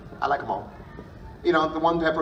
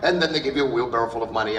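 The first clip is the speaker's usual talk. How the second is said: usual speaking voice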